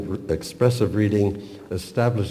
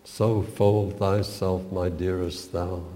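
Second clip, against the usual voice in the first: expressive poem reading. Acted. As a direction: read the love poem tenderly, letting lines fall. Reads the whole poem aloud.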